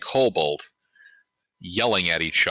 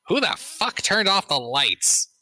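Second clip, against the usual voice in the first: high, slow burly dwarf bellow; gruff dwarf voice; 13 semitones higher than usual. Acted. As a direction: bark it out like an angry dwarf. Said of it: "A deeper, burlier, vaguely Scottish voice".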